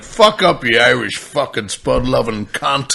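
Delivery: loud opening, drawn-out insult; mock retort. Comedian answering the Irish boy back, playful mock abuse. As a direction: hit the start hard, then stretch the abuse. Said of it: "he turned around and said something like".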